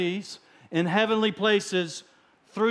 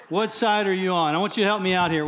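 Texas accent; faster than usual. Shown as a demonstration. Preacher to church, in a mild Texas accent. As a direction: ask it like a real Texan. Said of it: "in a real good Texas accent".

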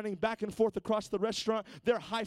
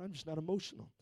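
low, much softer mumble; mock flat excuse; 2 semitones lower, 9 dB quieter, faster than usual. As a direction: toss the excuse off without caring. Repeating the churchgoer's excuse.

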